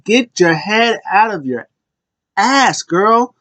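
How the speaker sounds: high, swooping telling-off; mock scolding. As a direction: act out a fed-up tag partner scolding. Voicing Candice scolding Indy.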